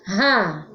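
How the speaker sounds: "Ra" with an h-like R; strong R. Shown as a demonstration. Teacher isolates the syllable from serra, strong h-like R in "Ra". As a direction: isolate "Ra", R pronounced as a breathy H. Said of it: "som forte".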